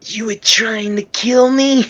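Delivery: high, slow, incredulous movie line; a hammed-up movie quote; mock movie line. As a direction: play the shocked Eddie. Acting movie dialogue.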